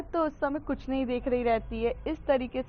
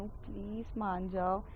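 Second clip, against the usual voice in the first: slow, softer "please मान जाओ" as a tender plea; soft pleading; 2 semitones lower, 7 dB quieter, slower than usual. Acted. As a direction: beg gently, "please मान जाओ" drawn out. Pleading in love note. (धीमे, नरम स्वर में "please मान जाओ" की मिन्नत)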